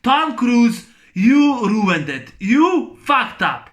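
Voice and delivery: loud, slow, furious accusation; angry rant. Real, not acted. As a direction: hammer each word at him. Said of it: "Yes, I said it".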